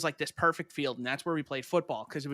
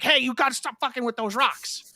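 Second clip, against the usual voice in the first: high, louder mock telling-off; retold angry scolding; 9 semitones higher, 5 dB louder than usual. Neighbor lady protecting her rocks, retold angry scolding. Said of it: "She gets so mad".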